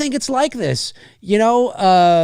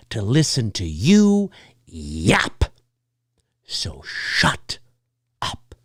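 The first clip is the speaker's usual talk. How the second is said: hushed scold; 10 semitones lower, slower than usual. Acted. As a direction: drop to a low hiss. Telling talkers to be quiet.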